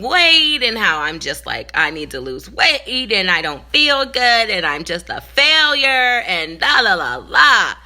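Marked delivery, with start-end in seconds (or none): 1.7-7.7 self-bullying rant. Retold or imitated. Preacher mocking her own self-talk, a put-on rant. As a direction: run yourself down, then shout it off. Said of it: "I was bullying myself".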